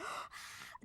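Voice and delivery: sharp voiceless gasp; imitated breathless scream without voice; mock scream gasp. Patient reacting to diagnosis on the phone, voiceless screaming gasp. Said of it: "I literally started screaming on the phone".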